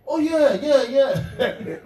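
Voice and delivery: hammed-up sleepy manager; imitating a groggy Avram. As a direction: play the just-woken manager, caught out. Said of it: "He goes".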